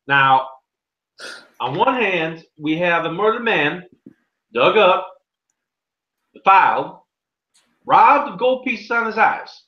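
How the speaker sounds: a hint of a pompous judge; lightly voiced small-town judge; stern judge. Game master voices the judge.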